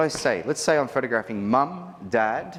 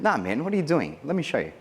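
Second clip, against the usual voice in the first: a lightly higher, cheeky Jerry tease; Jerry teasing groom; 3 semitones higher than usual. Retold or imitated. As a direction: play the cheeky friend taking over the kiss. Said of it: "he said to the groom".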